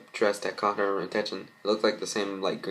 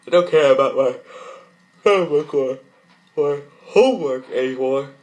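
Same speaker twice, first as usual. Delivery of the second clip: high, loud tearful wail; upset child near tears; 5 semitones higher, 10 dB louder than usual. Acted. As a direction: cry it out, voice breaking. Child crying over changed sister.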